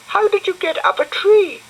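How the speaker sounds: put-on high bright little girl voice; high-pitched girl character; Florence's voice. A narrator's reading. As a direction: lift into a girlish squeak for Florence.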